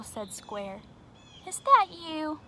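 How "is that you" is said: suspicious question. Acted. Square asks suspiciously.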